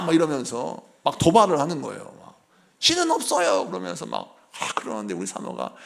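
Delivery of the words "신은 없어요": defiant shout. Retold or imitated. Child repeats the taunt.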